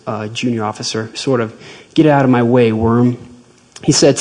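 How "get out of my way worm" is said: louder, contemptuous brush-off; dismissive general. Retold or imitated. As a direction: sneer it down at a junior. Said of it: "same kind of salute a senior officer usually gives".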